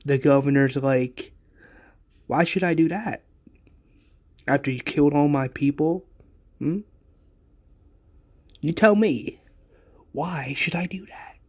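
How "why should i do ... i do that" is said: lightly mocking villain, pitched up on questions; taunting. Governor asks Rick why he should free hostages, mildly taunting. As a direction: needle him with each question.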